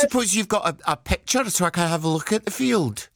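lightly voiced Scottish lady accent; gently put-on character voice; Mrs Doubtfire. Prank caller to dog groomer, a light Mrs Doubtfire. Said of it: "my very best, Missus Doubtfire".

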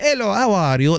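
hammed-up Italian accent; fake Italian accent. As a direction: greet kids like a jokey Italian ice cream seller. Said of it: "like he was pretending to be Italian".

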